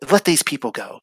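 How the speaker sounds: soft, calm command; Jedi mind trick. Retold or imitated. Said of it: "like a little Jedi mind trick".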